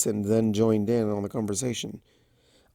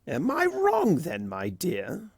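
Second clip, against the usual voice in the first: coaxing Discord; 7 semitones higher, slower than usual. Acted. Discord leaning close to Fluttershy, coaxing. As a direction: lean in close and coax.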